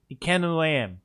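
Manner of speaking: "ken" said short, in a Scottish way; Scottish dialect word. Shown as a demonstration. Player working out the dialect, "ken" said Scottish-style. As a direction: lean on "ken" as Scottish for know. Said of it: "Scottish is the one that abbreviates reckon into Ken".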